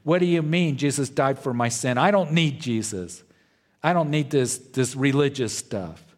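irritated retort, pitched slightly up; acted-out emotional objection, mildly heated; mock indignation. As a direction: imitate an upset scoffer protesting. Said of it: "they get very angry".

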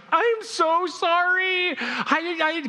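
high, drawn-out panicked apology; freaking out. Retold or imitated. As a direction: imitate a flustered hostess wailing an apology. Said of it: "she's, like, freaking out".

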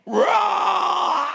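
high, slow mock roar; hammed-up monster roar; creature roar. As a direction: roar like the lunging thing. Creature lunges.

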